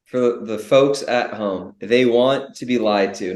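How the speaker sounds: slow, deliberate stress on "They want to be lied to"; emphatic repeat. Shown as a demonstration. Co-host repeats it for the folks at home, slow and emphatic. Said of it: "let me say it one more time".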